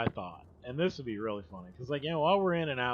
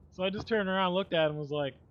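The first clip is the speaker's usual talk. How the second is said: ordinary talk, nothing marked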